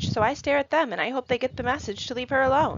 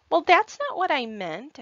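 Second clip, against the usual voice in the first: 1 defensive protest; 7 semitones higher, 5 dB louder than usual. A narrator's reading. Caitlin protests.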